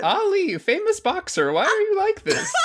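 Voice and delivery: laughing. Acted. Punning joke, laughing.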